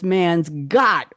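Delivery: "got" punched as if in capitals; "got" stretched and emphasized; stress on got. Shown as a demonstration. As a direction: hit the word "got" hard. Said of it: "all in caps".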